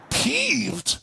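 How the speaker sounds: incredulous echo. Retold or imitated. Incredulously echoes the partner's mild word.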